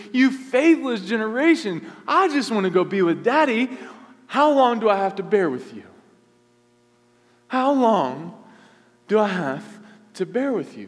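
exasperated Jesus. Acted. Preacher voicing exasperated Jesus.

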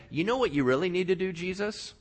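sly tempter getting pushy; tempting Satan. Acted. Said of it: "tempted him in the desert and said".

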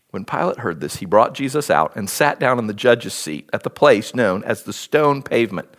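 measured Bible reading with pauses between phrases; scripture reading. A narrator's reading. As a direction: read the passage aloud, lightly voicing the dialogue. Reads the Bible passage aloud.

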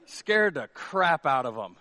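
ordinary talk

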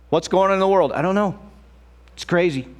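high, fretful worrying; anxious bystander voice up high; mock worried. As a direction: fret about the world. Worried voice of people.

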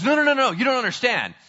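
rapid-fire acted objection; insistent pleading. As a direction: plead urgently, brushing off the objection. Acted king pleads for David.

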